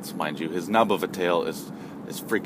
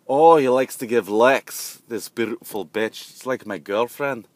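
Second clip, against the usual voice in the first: slow imitation European accent; 2 semitones higher, 4 dB louder than usual. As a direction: stretch it out in a put-on European accent. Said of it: "a European accent".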